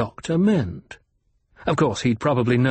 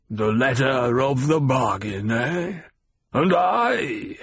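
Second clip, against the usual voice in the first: spat out; slower than usual. A narrator's reading. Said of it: "he spat the words out".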